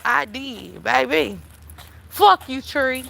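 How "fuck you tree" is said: cussing out a tree. Retold or imitated. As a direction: bark it at the tree like a kid who finally can. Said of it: "when I got old enough to cuss the trees out".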